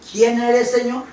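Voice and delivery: each word said clearly and distinctly; clearly spoken. Shown as a demonstration. Preacher reading Saulo's question clearly to the church. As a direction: say it plainly and distinctly so all hear. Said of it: "bien clarito dice".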